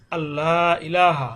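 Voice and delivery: "আল্লাহ ইলাহা" slow, straight into a double l, long vowels; noon not pronounced. Shown as a demonstration. Teacher showing the noon is dropped, slow recitation. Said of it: "এই নুন কিন্তু পড়া যাবে না".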